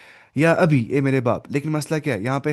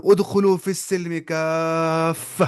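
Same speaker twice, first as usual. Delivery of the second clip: slow recitation with "کافہ" drawn out; measured verse quotation, last word stretched; Quran recitation; much slower than usual. Shown as a demonstration. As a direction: recite the verse, holding the long vowel in "کافہ". Quoting a Quran verse aloud.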